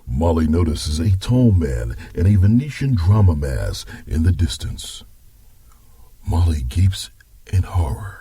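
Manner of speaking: story narration. Acted. Grandpa narrates.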